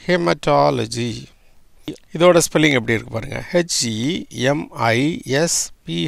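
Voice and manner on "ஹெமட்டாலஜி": ஹெமட்டாலஜி drawn out slowly, syllable by syllable; slow careful pronunciation. Shown as a demonstration. Teacher showing students the word, slow and deliberate. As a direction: sound out ஹெமட்டாலஜி slowly for the class. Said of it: "ஹெமட்டாலஜி எப்படி வருது?".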